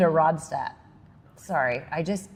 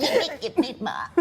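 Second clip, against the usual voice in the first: higher, giggly pop-star imitation; playful mimicked pop-diva line; a pop singer; 5 semitones higher, 3 dB quieter than usual. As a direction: copy a pop singer's squeezed voice. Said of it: "You have to copy me".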